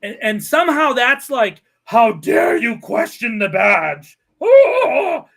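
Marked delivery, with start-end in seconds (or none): 1.8-5.2 mock cop outrage. Mocking police outrage.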